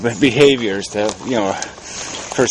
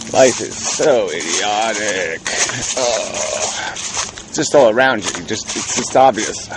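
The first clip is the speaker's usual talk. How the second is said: mouth full; slower than usual. Real, not acted. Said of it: "Sorry, I have a B twelve vitamin in my mouth".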